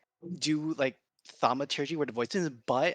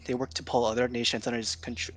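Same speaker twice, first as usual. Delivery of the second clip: stumbling over the words; stuttering. Real, not acted. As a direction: trip over the line nervously. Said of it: "This is me, like, stuttering".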